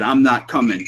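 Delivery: a light, plain read of the spirit's words; barely voiced spirit imitation; imitating the EVP voice. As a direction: say it like the recording said it. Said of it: "It said".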